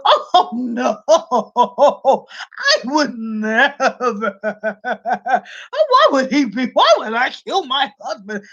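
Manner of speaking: mock-innocent denial through giggles; hammed-up innocent wife laughing off the question; fake innocent laugh. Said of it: "She go".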